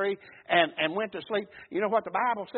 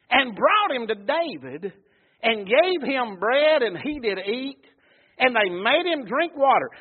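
sing-song pulpit reading, key words lifted; scripture reading; 3 semitones higher, 5 dB louder than usual. Acted. Preacher reads the Bible story to his congregation, declaimed scripture reading. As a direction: declaim the verses with rolling emphasis.

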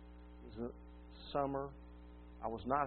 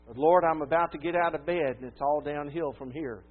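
raised, earnest praying voice, louder; fervent prayer; 3 semitones higher, 7 dB louder than usual. Retold or imitated. Preacher voicing a man's prayer, raised and earnest. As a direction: cry out the prayer to the Lord.

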